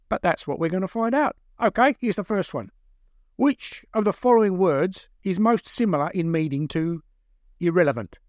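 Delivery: captor reading out a quiz; quizmaster captor. Acted. Second captor testing his prisoner, officious. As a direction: read the options out deliberately, like a quizmaster.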